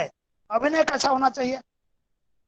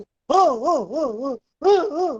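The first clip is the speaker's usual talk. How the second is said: mock bawling, hoh-hoh; demonstrated loud wailing; much slower than usual. Shown as a demonstration. Drama teacher shows street-play actors how to cry, mock loud wailing. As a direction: act out howling sobs in big waves. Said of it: "दहाड़े मार के".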